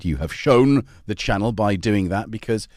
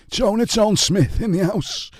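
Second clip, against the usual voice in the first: higher, slow hype-man shout-out; announcer hype; 9 semitones higher, 3 dB louder than usual. Real, not acted. Host hypes viewer Joan's arrival, slow MC-style call. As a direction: announce her like a club MC. Hyped greeting of viewer Joan.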